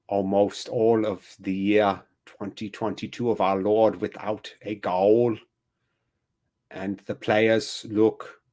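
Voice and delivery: put-on slow, solemn German-accented documentary narration; mild mock-Herzog, grave and drawn out; Werner Herzog voice. Streamer narrating the team's failure as a gloomy documentary, mock-solemn. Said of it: "I have been Werner Herzog".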